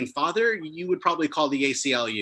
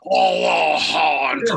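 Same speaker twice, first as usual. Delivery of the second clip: mock friend's outcry; 4 semitones higher, 7 dB louder, much slower than usual. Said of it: "he was like".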